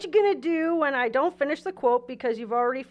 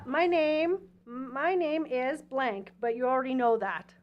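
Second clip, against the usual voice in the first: slow dramatic read; 4 dB quieter, slower than usual. Acted.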